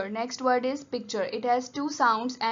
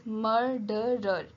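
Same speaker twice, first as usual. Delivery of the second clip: slow dictation; slower than usual. Shown as a demonstration. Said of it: "It has three sounds and three syllables".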